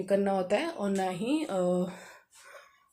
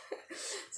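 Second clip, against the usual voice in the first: teasing laugh; 17 dB quieter than usual. Real, not acted. Laughing after teasing her husband.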